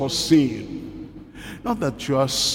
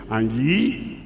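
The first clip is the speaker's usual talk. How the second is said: scripture reading. Acted. Reading the verse.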